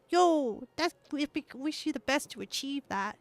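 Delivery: a hint of cutesy, lifted voice. Shown as a demonstration. Streamer wishing a viewer well in a put-on cute voice. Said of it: "I'll just do it in a cute voice".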